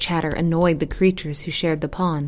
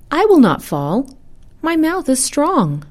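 high, insistent protest; 9 semitones higher, 5 dB louder than usual. A narrator's reading. Turtle insists to geese he can hold on, protesting. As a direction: protest in a raised, emphatic voice. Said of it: "The turtle protested".

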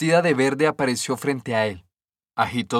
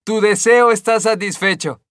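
higher, louder fairy voice; fairy granting a wish; 7 semitones higher, 5 dB louder than usual. A narrator's reading. Green fairy to the stonecutter, grand higher voice.

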